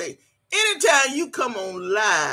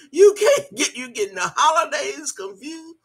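much higher, words squeezed out through a laugh; 4 semitones higher than usual. Real, not acted. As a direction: laugh while you say it. Laughing at commenter.

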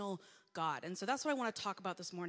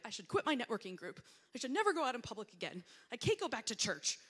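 dramatic overreaction; 2 semitones higher, 4 dB louder than usual. Retold or imitated. Speaker wanting to crawl in a hole, dramatic overreaction. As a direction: pile up the vows in exaggerated embarrassment.

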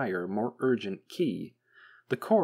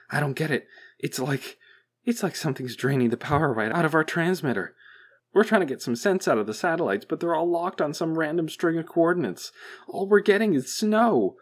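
high, loud, harried technician; baffled technician; 7 semitones higher, 6 dB louder than usual. A narrator's reading. Technician reporting jammed satellites to the boss, baffled and harried. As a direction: explain it in mounting bafflement, pitched up.

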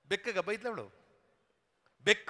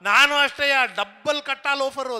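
mock quarrel retort; 3 semitones higher, 6 dB louder than usual. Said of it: "ಅಂದ ಅವನು".

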